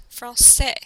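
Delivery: "français" with a clear S for the ç; soft C. Shown as a demonstration. Teacher showing the cédille to the class, ç as S. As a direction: sound the middle of "français" as S. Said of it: "Notice that it sounds like an S".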